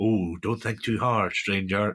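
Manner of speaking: seductive, sultry put-on temptress voice. Describing how a character comes across, in a mock sultry femme fatale voice. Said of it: "she definitely gives off a more femme fatale".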